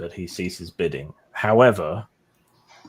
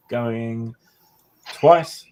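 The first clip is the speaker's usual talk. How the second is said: loud, higher going twice; auctioneer call; 3 semitones higher, 5 dB louder than usual. Acted. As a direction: ring it out to the room.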